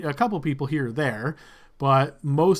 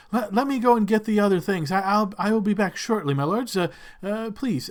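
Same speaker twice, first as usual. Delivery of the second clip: fawning servant; 4 semitones higher than usual. Acted. Servant fawns over Lord Blixel, high and eager. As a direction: gush over the lord's name.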